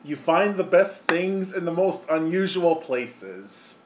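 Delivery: slow, deliberate catchphrase; catchphrase delivery. Acted. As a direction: savour each word of the motto. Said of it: "as I always say".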